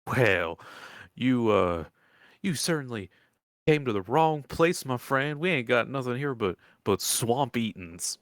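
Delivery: lightly voiced country woman turning strangers away; a hint of a folksy old woman; old swamp woman, dismissive.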